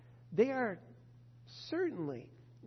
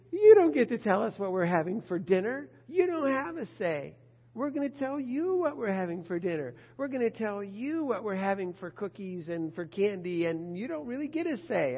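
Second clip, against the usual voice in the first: bossy parent; 6 dB louder than usual. Retold or imitated. Parent lays down rules to kids.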